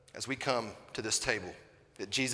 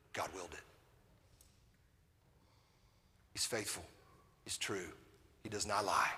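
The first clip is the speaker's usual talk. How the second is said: tender reassurance; 3 semitones lower than usual. Acted. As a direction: bring it down to a gentle hush of comfort. Reassuring soft section of sermon.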